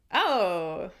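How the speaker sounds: ordinary talk, nothing marked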